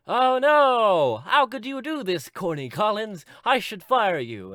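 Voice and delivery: high, loud scandalised suburban mom; hammed-up outraged lady boss; producer lady. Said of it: "the white producer lady".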